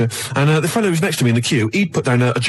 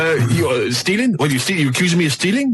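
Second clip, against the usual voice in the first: incredulous question in a put-on foreign accent; hammed-up foreign accent, affronted; mock Turkish-sounding accent; 2 semitones higher than usual. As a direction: act the offended customer with a rough Turkish accent. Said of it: "Definitely, definitely Turkish".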